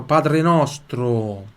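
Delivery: very slow, drawn-out Italian title; slow teacher's model for learners. Shown as a demonstration. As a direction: stretch out each word in Italian. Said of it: "Pai Nosso em italiano".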